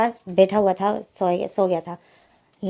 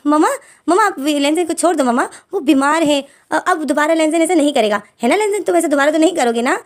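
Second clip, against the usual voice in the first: anxious pleading; 6 semitones higher than usual. Acted. Wing pleads with mother to let Lenzen go, higher and anxious. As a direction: talk fast to cover yourself.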